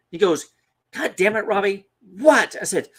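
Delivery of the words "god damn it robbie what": loud, raised retold outburst; exasperated. Dad answering his nagging son mid-hunt, exasperated. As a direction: imitate a dad who has had enough, stretching the end.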